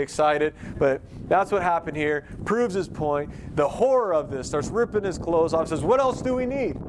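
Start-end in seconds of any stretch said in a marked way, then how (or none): 5.8-6.8 outraged high priest. Acted.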